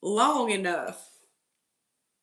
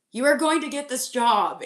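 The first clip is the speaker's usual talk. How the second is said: louder, higher insistent repeat; emphatic insistence; 4 semitones higher, 3 dB louder than usual. Shown as a demonstration. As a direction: drive it home, punch "are".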